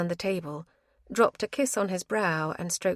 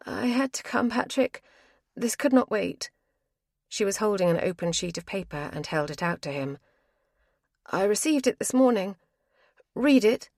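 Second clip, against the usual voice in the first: a higher, pressing woman's voice; urgent woman; 3 semitones higher than usual. Acted. Avril presses the letter on Patrick, urgent higher voice. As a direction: she has rushed here and won't wait.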